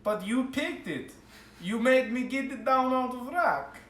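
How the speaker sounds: a shopkeeper complaining he fetched it for nothing; indignant dwarf. Acted. Dwarf protests customer.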